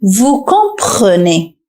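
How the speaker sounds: "Vous comprenez" very slowly, each sound clear; slow drill. Shown as a demonstration. Teacher invites viewer to repeat aloud, very slow. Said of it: "ردد معي عزيزي المشاهد بصوت مرتفع".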